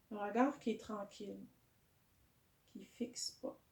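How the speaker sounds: calm yoga guidance with long pauses; guided meditation. Real, not acted. Teacher settling a yoga class into breathing, calm guided meditation. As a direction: guide the breath gently, unhurried.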